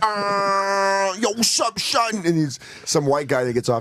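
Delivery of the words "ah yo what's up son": very slow, laid-back, high hip-hop radio DJ drawl. Retelling a comedy sketch's parody of hip-hop radio: mock hip-hop DJ voice. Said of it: "perfect parody of Minnesota's hip-hop stations".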